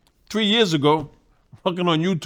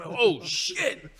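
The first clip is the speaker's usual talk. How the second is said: higher, laughing through the curse; 7 semitones higher, 5 dB quieter, much slower than usual. Real, not acted. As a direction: laugh out the memory of that punch. Laughing at the remembered punch.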